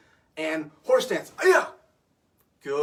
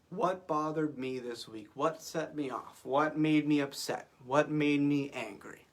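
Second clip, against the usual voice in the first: slow reflective prompt; slower than usual. Shown as a demonstration. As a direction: ask them gently and let each one sink in. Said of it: "give you a second to think about it".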